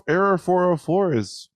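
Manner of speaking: high and loud, excited; blurting out the joke, excited. Real, not acted. Excited about error joke.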